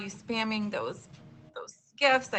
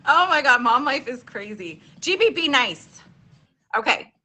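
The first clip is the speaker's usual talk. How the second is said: mom voice; 3 semitones higher, 4 dB louder than usual. Real, not acted. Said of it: "That's my mom voice".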